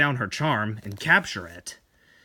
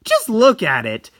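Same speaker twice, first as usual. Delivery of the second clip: indignant; 7 semitones higher, 6 dB louder than usual. Acted. Tomie scolds the painter.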